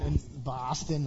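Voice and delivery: a slow, hammed-up try at a Boston accent; mock Boston accent from a Tennessee boy; Boston accent attempt. Shown as a demonstration. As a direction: drawl Boston the way a Bostonian would, half-joking. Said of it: "can fake that accent".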